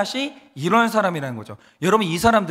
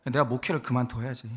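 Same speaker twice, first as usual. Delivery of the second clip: low, soft defensive grumble; self-pitying threat to quit; 9 semitones lower, 8 dB quieter than usual. Retold or imitated. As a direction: sulkily threaten to give it all up. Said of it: "그럼 제가 뭐라고 하는지 아세요". (낮게 푸념하듯 자책하는 말투)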